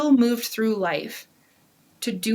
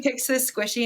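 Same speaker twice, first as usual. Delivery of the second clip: ordinary talk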